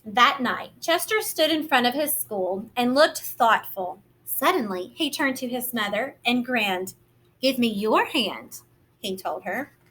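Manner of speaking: gentle, lively picture-book narration; reading to children. A narrator's reading. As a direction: read it like storytime for little ones.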